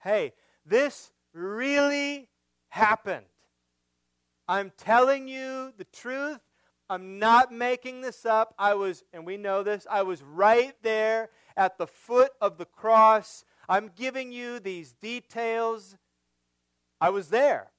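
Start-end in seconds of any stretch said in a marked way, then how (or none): 0.0-9.0 John testifying. Acted. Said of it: "He stops in the middle of his narrative and said". 9.9-17.7 John testifying. Acted. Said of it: "He stops in the middle of his narrative and said".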